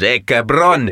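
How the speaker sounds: punchy mock Mexican Spanish outburst. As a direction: imitate a fighter going full Mexican Latino. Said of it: "full Spanish Mexican and".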